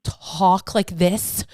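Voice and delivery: drawn-out, emphatic words; slow, deliberate demonstration; talking like this. Shown as a demonstration. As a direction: stretch each word out slowly. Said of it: "I'm not gonna go, I don't talk like this".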